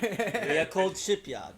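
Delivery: loud, slow, high proclamation; drawn-out mock stage shout; metal band announcer. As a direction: announce the band like a hammed-up frontman. Joins in playing the metal band.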